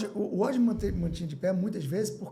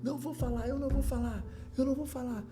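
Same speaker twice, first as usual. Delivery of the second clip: higher, strained mock refusal; a retold refusal in a pleading, raised voice; stubborn refusal; 9 semitones higher than usual. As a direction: dig in, imitating his own stubborn self. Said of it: "foi uma pancada entre eu e o Paulo".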